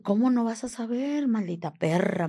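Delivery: retold insult, starting high-pitched; acted-out furious accusation, not shouted; angry accusation. Acted captor insulting and accusing her.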